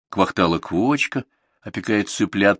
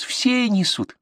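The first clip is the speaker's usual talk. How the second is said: justifying herself; 14 semitones higher, much slower than usual. A narrator's reading. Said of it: "оправдалась".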